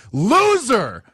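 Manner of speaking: loud, high mocking shout of Loser; taunting yell. Real, not acted. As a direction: jeer at the rivals. Taunting rival team.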